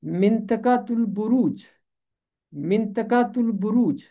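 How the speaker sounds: मिंतकातुल बुरूज said twice, syllable by syllable, ending in बुरूज; teacher sounds out मिंतकातुल बुरूज; model pronunciation. Shown as a demonstration. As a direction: show the class मिंतकातुल बुरूज clearly. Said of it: "इसका तलफ़ुज़ है".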